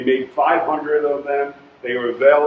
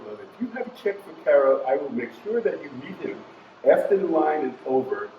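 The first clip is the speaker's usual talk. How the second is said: put-on British accent; 4 dB quieter than usual. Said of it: "she goes with a British accent".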